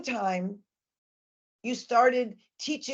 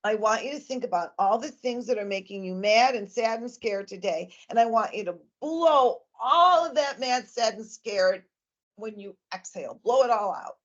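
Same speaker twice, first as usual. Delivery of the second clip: gentle breathing coach. Shown as a demonstration. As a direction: talk the child through blowing it all out. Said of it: "I tell the child".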